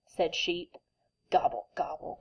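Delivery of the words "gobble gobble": grumbled. Acted. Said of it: "grumbled Turkey".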